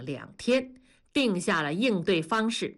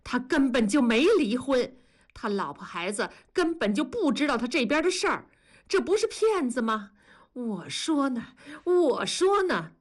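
rising indignant outburst, climbing higher; a worked-up old woman, voice mounting in outrage; 气得发抖，越说越激动; trembling with anger; 4 semitones higher than usual. Acted. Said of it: "文丽气得直哆嗦".

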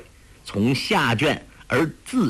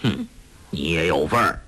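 put-on low, curt old man with a snort; a hint of a disdainful huff; huffing father; 7 semitones lower than usual. A narrator's reading. Father scolding his daughter, low and curt. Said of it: "黄药师哼了一声说".

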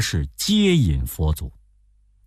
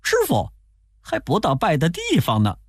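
笑着的悟空; 7 semitones higher, faster than usual. A narrator's reading. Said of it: "悟空笑着说".

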